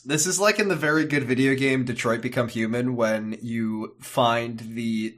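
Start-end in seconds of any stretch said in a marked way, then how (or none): none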